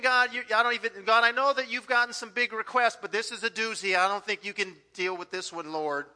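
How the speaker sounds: doubting pray-er. Retold or imitated.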